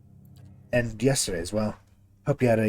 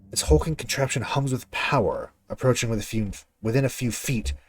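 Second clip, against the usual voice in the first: reading game text. Acted. Reads game description text.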